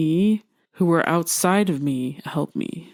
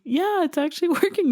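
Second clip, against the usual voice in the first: laughing relief; 12 semitones higher, faster than usual. Real, not acted.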